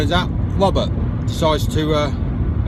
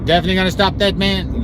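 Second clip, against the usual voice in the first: put-on higher, doubting American accent; 3 semitones higher, faster than usual. Applicant doubts the lion will stop, American accent. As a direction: check it in a mock American accent. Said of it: "that's the part of the American accent".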